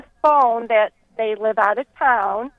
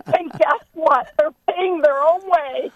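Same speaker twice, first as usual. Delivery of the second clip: punchline slowed and higher, breaking into laughter; laughing punchline; 5 semitones higher, slower than usual. Real, not acted. Caller finishing her joke to the hosts, laughing. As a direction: deliver the twist through giggles.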